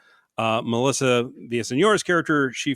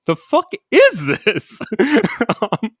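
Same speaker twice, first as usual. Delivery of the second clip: laughing; 10 semitones higher, 4 dB louder than usual. Real, not acted. Reading his comment out, laughing.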